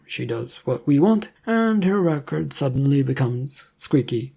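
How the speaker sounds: a hint of a polite official offering food; government agent. Agent briefs Leonardo.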